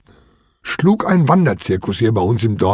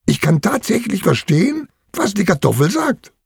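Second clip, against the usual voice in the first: put-on high-pitched, thrilled boy; enthusiastic; 8 semitones higher than usual. A narrator's reading. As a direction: burst out in a high, eager voice. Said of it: "sagt er begeistert".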